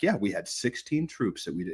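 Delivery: soft, low imitation of a modest brag; hushed parody of national pride; mock Australian boasting. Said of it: "And they're like".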